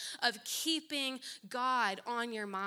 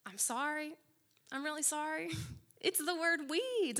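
apologetic laugh; 5 semitones higher than usual. Retold or imitated. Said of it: "So I said".

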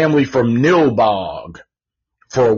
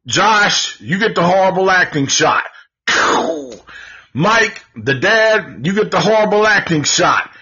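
higher announcer voice handing out prizes; mock award announcer; 7 semitones higher than usual. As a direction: call each name like an awards host.

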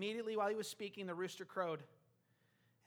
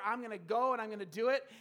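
loud, gung-ho resolve; forceful acted self-motivation; determined willpower; 2 semitones higher, 7 dB louder than usual. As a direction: pump it out like a pledge. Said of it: "with all our commitment and willpower".

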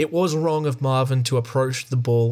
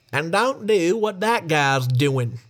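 slow, drawn-out driver's announcement; bus driver on intercom; 3 semitones higher, slower than usual. A narrator's reading. Bus driver warning passengers over the intercom, slow drawn-out voice. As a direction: draw it out as a pointed warning. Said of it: "he added over the intercom".

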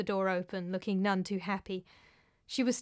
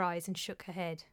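whispering; 3 semitones lower, 7 dB quieter than usual. A narrator's reading. Narration dips into a whisper.

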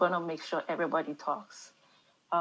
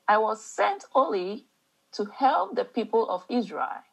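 reading scripture in an African mom accent; 3 semitones higher than usual. Shown as a demonstration. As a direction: African mom reading the Bible aloud, emphatic, in measured phrases. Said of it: "African mom accent".

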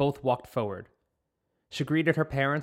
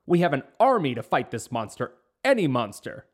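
roaring king; 4 dB louder than usual. Acted. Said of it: "the king roared".

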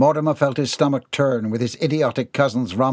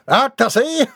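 spat out; 13 semitones higher, 5 dB louder than usual. Acted. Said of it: "Mortimer spat out".

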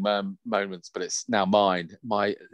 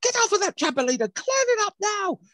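loud, high-pitched scolding shriek; right rollicking; 4 dB louder than usual. Retold or imitated. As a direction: bawl out the kids as their mum. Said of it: "she gave him a right rollicking".

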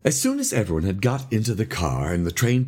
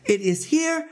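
slow, high, halting explanation; faltering; 8 semitones higher, slower than usual. A narrator's reading. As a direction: halt along until cut off. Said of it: "he faltered".

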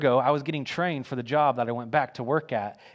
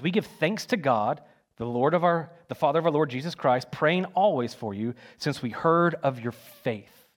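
scripture reading. Acted. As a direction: lay out the verse carefully. Rereads verse three.

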